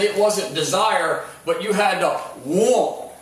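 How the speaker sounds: put-on want said as wont in a slow North Carolina accent. Coach demanding players, slow North Carolina want. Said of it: "in that thick North Carolina accent".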